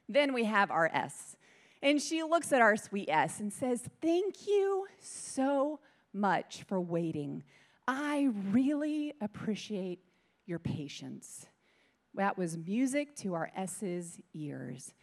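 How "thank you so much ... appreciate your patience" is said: calm her down gently, taking your time; lightly voiced gentle volunteer; soothing thanks. Soothing the patient S.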